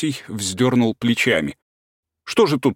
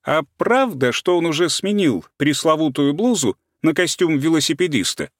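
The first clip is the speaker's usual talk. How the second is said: teasing, a bit higher; mocking, loud; 6 semitones higher than usual. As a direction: needle him with a mocking question. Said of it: "выговорила громко и насмешливо".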